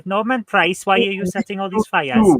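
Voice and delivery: half-hearted Welsh lilt, asking in mock alarm; Welsh accent. Quiz player jokingly showing off a lightly done Welsh accent. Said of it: "I can kind of do a Welsh accent".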